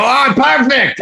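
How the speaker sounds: high-pitched mock delight; playfully overdone high exclamation. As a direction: cry out as if thrilled by the note. Retold delighted reply to coach.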